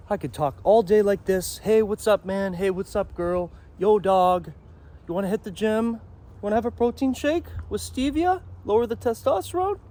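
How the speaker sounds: high-pitched falsetto demo of a weak voice. Shown as a demonstration. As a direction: squeak it out up high like a thin-voiced gym bro. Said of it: "if I was to sing in a falsetto voice".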